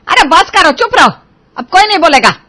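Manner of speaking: loud, high command to be silent; stern shout. Acted. Mother-in-law silencing the quarrelling bahus, loud stern order. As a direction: shut them all up at once.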